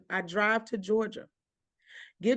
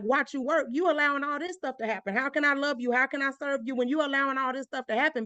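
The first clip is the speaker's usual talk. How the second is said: raised pitch, indignant ranting at God; a higher, heated rant, questioning God; retold rant at God; 5 semitones higher than usual. She rants at God, who allowed the suffering, in high indignant pleading. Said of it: "this is the rant that I went on".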